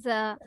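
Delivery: "The" said lightly on its own; unforced th. Shown as a demonstration. Teacher showing learners not to force it, gentle isolated "The". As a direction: release "The" gently, no pressure. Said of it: "এত force দেই না".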